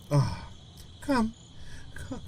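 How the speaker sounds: uncertain first attempt at Gran; first-try Gran voice. Shown as a demonstration. Gran ushers grandchild inside, tentative short first-try voice. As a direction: test the voice on short, separate words. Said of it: "That one sounded like, uh, the other voice I did".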